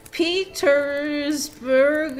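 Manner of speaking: dragged-out, puzzling-it-out read; sounding out. Real, not acted. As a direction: draw the word right out while deciphering it. Deciphering messy handwriting letter by letter.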